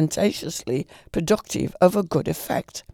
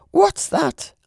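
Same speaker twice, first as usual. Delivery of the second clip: higher, startled lady's voice; 12 semitones higher, 4 dB louder than usual. A narrator's reading. Lady hears a noise in her room, startled higher cry. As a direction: jump at a noise in the dark.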